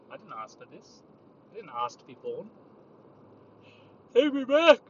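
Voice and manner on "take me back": loud wail. Acted. Mock despair at being born.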